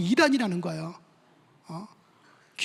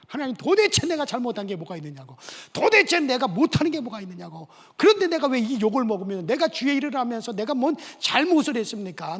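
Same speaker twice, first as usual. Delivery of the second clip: complaining to God; 3 semitones higher, 4 dB louder than usual. Retold or imitated. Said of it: "하나님 앞에 가서 시큰 불만 불평을".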